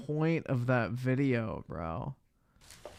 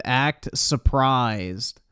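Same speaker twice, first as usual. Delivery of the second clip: mock stage direction; much slower than usual. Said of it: "held a cue card up behind him and said".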